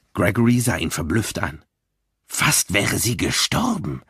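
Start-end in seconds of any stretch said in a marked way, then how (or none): 2.3-4.0 smug. Acted. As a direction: savour it, pleased with yourself. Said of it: "Seine Stimme klang selbstzufrieden".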